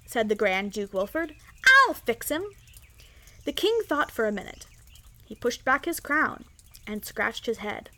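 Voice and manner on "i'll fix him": put-on high-pitched, cocky child voice; proud little boy. A narrator's reading. Young duke calling up to the king, proud boy's voice. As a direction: pipe up like a bossy little boy. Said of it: "a very proud little boy".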